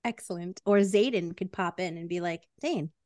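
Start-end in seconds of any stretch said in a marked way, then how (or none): 2.6-2.9 low-pitched mock British accent; a stern word in a put-on British accent. Xaden popping in to scold Dane, low British accent. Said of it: "why he had to have a British accent".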